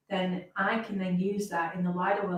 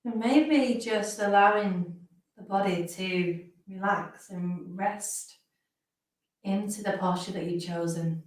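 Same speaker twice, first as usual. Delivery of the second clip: slow phrases with long pauses; guided meditation. Real, not acted. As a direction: ease listeners gently into rest, phrase by phrase.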